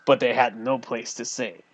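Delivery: lightly voiced gruff old innkeeper; a hint of a scruffy old man. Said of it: "something scruffy like this".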